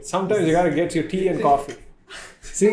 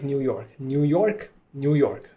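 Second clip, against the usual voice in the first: slow tongue twister; 4 dB quieter, much slower than usual. Shown as a demonstration. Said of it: "Is that word".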